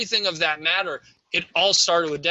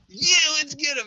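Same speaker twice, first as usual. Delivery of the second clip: squeaky Decepticon voice; 9 semitones higher than usual. Retold or imitated. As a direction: belt it out like a dumb robot henchman. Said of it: "Do your Decepticon squeaky voice".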